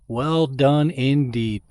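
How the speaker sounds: drawn-out, savoring each word; slow emphatic praise. Real, not acted. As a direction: stretch it out with sincere pride. Praising sponsor, drawn out repeat.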